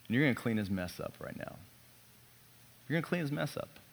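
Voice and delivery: soft, gentle reassurance; tender voice of God. Acted. Pastor voicing God to himself, soft and tender. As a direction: speak it softly as God comforting a father. God's voice, softly.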